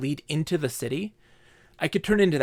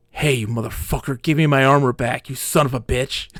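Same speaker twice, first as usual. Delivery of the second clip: mock furious demand; 2 semitones lower, 3 dB louder than usual. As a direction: play a furious player demanding it back. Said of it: "Like, furious".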